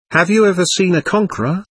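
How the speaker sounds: quick, high and elated boast; ecstatic. A narrator's reading. Officer boasting to his second, quick and high with glee. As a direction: crow it out, giddy with triumph. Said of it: "I was in ecstasy".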